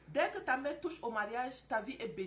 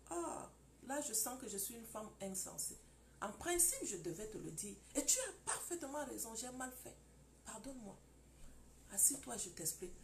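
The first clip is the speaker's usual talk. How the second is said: much softer, humble apology; contrite wife; 7 dB quieter than usual. Acted. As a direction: apologize quietly, head bowed. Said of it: "Ma femme ne parle plus quand je crie". (épouse repentante, voix très douce)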